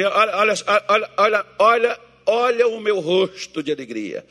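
loud, bright repeated olha; cheerful call-out. Shown as a demonstration. The pastor has the congregation cheer to their neighbour, joyful loud call. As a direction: shout it joyfully to your neighbour. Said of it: "olha pro seu vizinho e diz assim".

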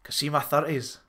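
imitating a friend in a thicker Scottish accent. Quoting friend Archie to a podcast cohost, thick Scottish accent. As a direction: lay the Scottish accent on thick, playful retelling. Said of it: "that thicker Scotch accent that you've given to them".

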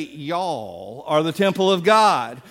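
slow, folksy Southern y'all; a light Southern drawl. Shown as a demonstration. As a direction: draw out y'all like a Southern preacher. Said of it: "if they were Southern, they would say".

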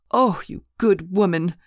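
a lifted, grateful cry. Acted. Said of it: "she cried as I came in".

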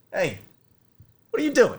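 high, loud mock challenge from the chief; chief's challenge. Chief catches him at the table, high loud mock demand. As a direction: bark it out like a suspicious chief. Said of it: "he goes".

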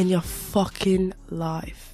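slow, drawn-out mock Aussie accent; hammed-up Australian accent, slowly; put-on Australian accent. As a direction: stretch it out in a playful Australian accent. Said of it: "gonna be doing accents".

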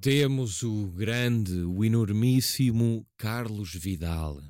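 slow, drawn-out showman announcement; grand announcer intro. Acted. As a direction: build him up like a ringmaster. Grand host introduction of guest. (apresentação lenta e pomposa)

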